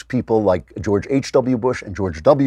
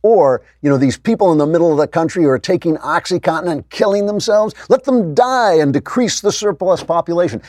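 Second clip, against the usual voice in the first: higher, sneering parody of a callous conservative; mocking callous conservatives; 7 semitones higher than usual. Radio host mocking how callous conservatives talk, higher sneering parody. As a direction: lampoon the heartless pundit, pitched up. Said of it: "too many damn conservatives sitting around saying".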